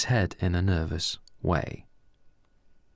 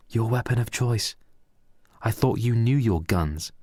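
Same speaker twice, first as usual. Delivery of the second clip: mild irritated repeat; 4 semitones higher than usual. Acted. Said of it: "said Reese with a more angrier tone".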